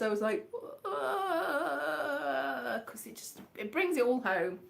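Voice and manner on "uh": soft, high, drawn-out mock sob; long whimpering pretend cry; imitated weeping wail. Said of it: "I was in a complete mess".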